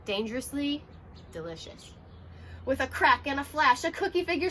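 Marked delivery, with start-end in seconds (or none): 0.0-1.9 gentle, fading. Acted. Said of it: "Ninja Fox gently hummed".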